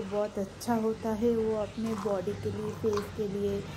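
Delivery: straw between the lips; talking while sipping juice; drinking through a straw. Real, not acted. Seen 1: Lips on straw in glass of juice throughout labelled words.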